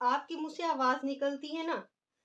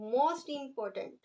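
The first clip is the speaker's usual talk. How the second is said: very slow, each word drawn out for writing; slow dictation; much slower than usual. Shown as a demonstration. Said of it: "important की third degree बनेगी". (बहुत धीरे-धीरे लिखवाते हुए)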